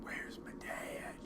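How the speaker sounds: unvoiced whisper. Real, not acted. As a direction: breathe it, no voice. Whispered line.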